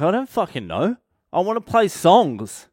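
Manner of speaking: high-pitched exasperated retort; exasperated pupil. Retold or imitated. Pupil answering guitar teacher's question, exasperated.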